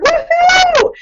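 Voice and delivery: name drawn out, then a high shouted woohoo; excited shout. Real, not acted. Leader announcing a top earner, shouting with joy. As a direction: shout her name and cheer. Announcing best month ever.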